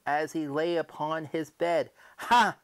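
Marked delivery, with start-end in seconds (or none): 2.2-2.5 triumphant ha. Acted. Narrator gloats over his cunning.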